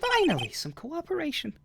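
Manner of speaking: a flirty country gal perking up at gossip; Southern accent. Acted. Southern witness excited about the murder, high Southern accent.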